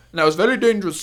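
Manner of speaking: put-on Jamaican woman's accent. Retelling what a Jamaican woman said while mixing something, in a Jamaican accent. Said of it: "so I'm gonna do a Jamaican accent real quick".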